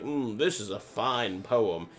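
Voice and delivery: slow, lightly voiced armchair connoisseur; a hint of leisurely fireside contentment; relaxed reader savouring. Speaker imagines reading by the fire, relaxed reader savouring. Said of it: "in a nice chair".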